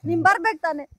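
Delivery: real quiet sob; sobbing. Real, not acted. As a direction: let the words break in tears. Woman breaks down after pause. (ಬಿಕ್ಕಳಿಸುತ್ತಾ)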